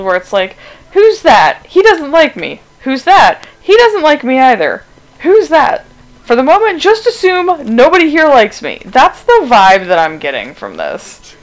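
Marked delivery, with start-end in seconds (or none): 0.9-8.8 high, loud, put-upon hero whining about being hated; Flynn Rider vibes. Retold or imitated. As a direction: play the charming rogue nobody likes, pitched up and loud. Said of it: "He's giving me vibes of Flynn Rider".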